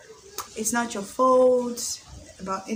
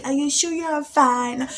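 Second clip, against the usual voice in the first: higher and louder, anxious checking-in; mock worried girlfriend; 6 semitones higher, 6 dB louder, slower than usual. Checking on a busy boyfriend, a playful anxious girlfriend. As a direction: press him gently but insistently. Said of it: "work busy".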